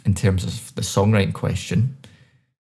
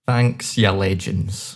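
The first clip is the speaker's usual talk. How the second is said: Scottish accent, slow; slower than usual. Shown as a demonstration. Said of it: "That's what I'd say".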